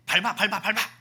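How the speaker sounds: mock-fierce repeated command; ruthless urging. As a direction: egg someone on to trample, hammed-up. Acts out ruthless worldly urging.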